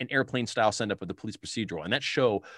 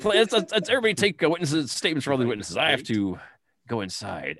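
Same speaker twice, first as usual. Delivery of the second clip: Drebin dismissive; 4 semitones higher, 3 dB louder than usual. Retold or imitated. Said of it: "yeah, like".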